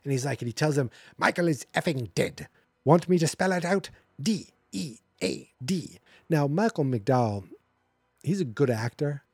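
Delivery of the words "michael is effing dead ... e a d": mock exasperation, each word punched out; losing patience. Fed-up author answering reporters, losing patience. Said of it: "Loomis loses his pace-, patience".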